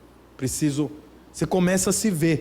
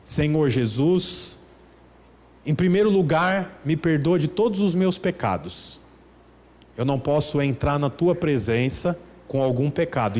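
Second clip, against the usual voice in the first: mock formal prayer; 3 semitones lower than usual. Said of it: "com a mão assim".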